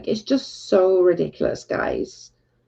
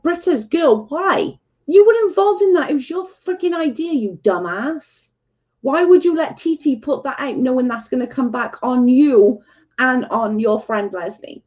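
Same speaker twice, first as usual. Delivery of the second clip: high, incredulous scolding, much higher pitch; retold telling-off; 5 semitones higher than usual. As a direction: scold the friend as if she's standing there. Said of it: "and I'm like".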